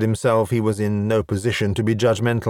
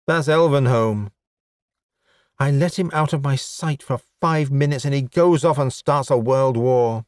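lightly voiced, raised exasperation; exasperated elf woman; 3 semitones higher than usual. Elf woman complaining about someone starting a war, exasperated. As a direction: complain with a slightly lifted voice.

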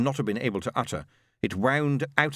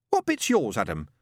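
challenging. Acted. Pepper challenging Adam about his share, pointed. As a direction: press him hard.

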